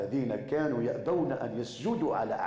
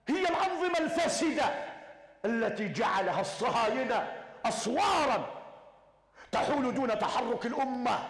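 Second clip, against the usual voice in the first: full-force preaching; 8 semitones higher than usual. Acted. Preacher rouses believers against tyrants, fiery shouting. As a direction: rise to a fiery preacher's cry.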